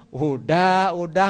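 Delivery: acted, slightly insistent "udah, udah"; insincere answer. Hungry person lying about having eaten, insincere answer. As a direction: fib that you have already eaten. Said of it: "menjawab bukan dengan ketulusan".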